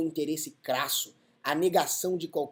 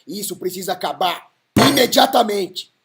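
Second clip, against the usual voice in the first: furious shout; 6 semitones higher, 13 dB louder than usual. Real, not acted. Indignant rant against beach robberies.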